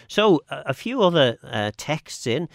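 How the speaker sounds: ordinary talk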